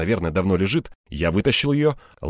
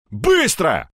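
sharp, higher-pitched order; growled command; 5 semitones higher than usual. A narrator's reading. Hero rushing the man tying hands, snarled. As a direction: snarl it out to hurry him. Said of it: "рыкнул я".

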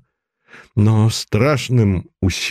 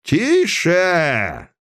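much higher barked command; thundering hush; 9 semitones higher than usual. A narrator's reading. The chairman silences the defiant girl, shouting. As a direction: silence the room. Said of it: "прогремел голос председателя".

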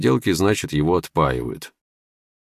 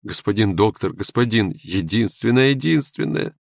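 ringing youthful cry; 7 semitones higher than usual. Acted. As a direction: cry out, climbing with each repeat. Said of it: "выкрикнул он вдруг по-юношески звонко".

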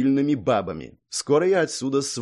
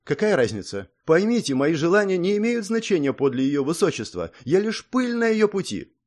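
pleading self-abasement; 6 semitones higher than usual. Acted. Song pleads her unworthiness.

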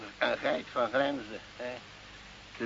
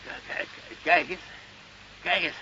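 fluisterend; 7 dB quieter than usual. Acted. Old man whispers the secret stash.

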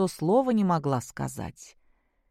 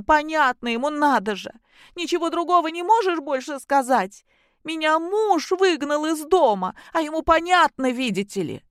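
angry outburst; 10 semitones higher, 5 dB louder than usual. A narrator's reading. Daughter keeps raging at father.

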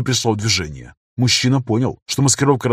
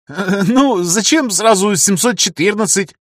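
высоко, с нервным смешком; нервно оправдываясь, медленно; 8 semitones higher, slower than usual. Acted. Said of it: "нервно хохотнув". (нервно, высоким голосом)

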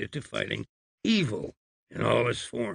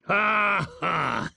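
sarcastic ha ha; 6 semitones higher than usual. Acted. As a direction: laugh at him with scorn. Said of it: "with subtle sarcasm".

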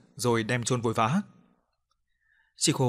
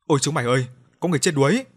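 shouting; 3 semitones higher, 5 dB louder, faster than usual. Acted. Boy calling friends about a drowned man, shouting. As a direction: yell to the other boys in fright. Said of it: "miệng la bài bài".

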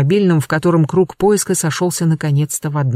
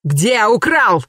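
thundering; 5 semitones higher, much slower than usual. A narrator's reading. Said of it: "загремел Клавдий".

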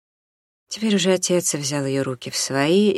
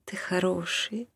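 tender; 4 semitones higher, 7 dB quieter than usual. Acted. Mother softly to husband.

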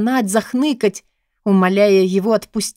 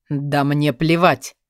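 cold retort; 5 semitones lower, slower than usual. A narrator's reading. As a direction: lower and slow, icy dismissal. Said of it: "Холодно отозвался он". (холодно, низким медленным голосом)

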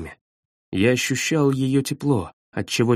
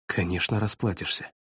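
soft teasing; 5 semitones lower, 8 dB quieter than usual. A narrator's reading. Teasing reply in intimate scene.

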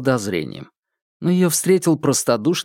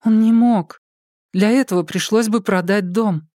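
put-on lightly raised young woman's voice, earnest; Polina's voice; 8 semitones higher than usual. Polina explaining to the detectives, in a lightly raised earnest voice.

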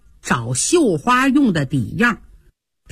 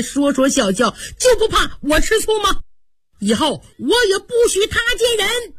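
angry rant; 4 semitones higher than usual. Acted. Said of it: "火更大了".

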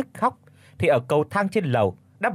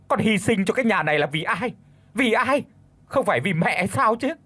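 indignant yell; 6 semitones higher than usual. Acted. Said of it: "rồi quát".

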